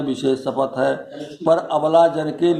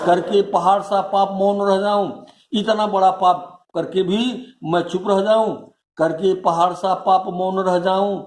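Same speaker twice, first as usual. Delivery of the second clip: recited queen's question, pitched up; rhetorical question; 4 semitones higher than usual. Acted. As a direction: ask it as a mildly indignant, self-accusing challenge. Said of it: "प्रश्न करती हैं".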